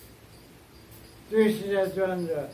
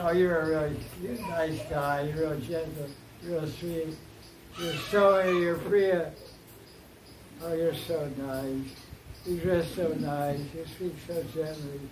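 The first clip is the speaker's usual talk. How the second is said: sarcastic praise; 3 semitones lower, 4 dB quieter than usual. Acted. Radha mocking the bee as gentle and sweet, sarcastic. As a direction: lower and softer, syrupy mock compliments.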